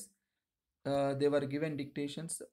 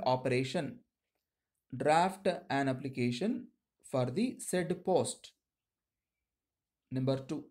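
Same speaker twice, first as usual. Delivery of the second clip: dictating. Acted. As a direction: read it out phrase by phrase for shorthand. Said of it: "Now I'm going to dictate you".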